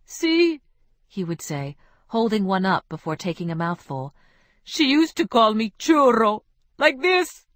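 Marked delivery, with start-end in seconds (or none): 0.0-0.6 high, eager "See"; lovesick man. Acted. Ruben showing friends a cake, high and eager. 4.6-7.5 higher, louder, put-on voice; mock Isabel call. Ruben imitating how Isabel called him, higher and louder.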